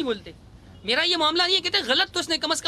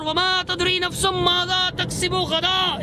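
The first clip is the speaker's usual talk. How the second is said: high, sustained Arabic recitation; Quran recitation; 4 semitones higher than usual. Real, not acted. Debater quoting scripture as proof, reciting. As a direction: recite it on a raised, held tone.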